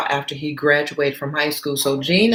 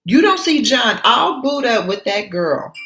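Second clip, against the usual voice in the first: voicing Gina; 7 semitones higher than usual. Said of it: "So Gina's like".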